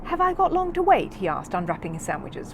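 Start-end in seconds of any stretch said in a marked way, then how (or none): 0.0-1.1 high, loud eager bear voice; loud, high young bear. Acted. Paddington voice.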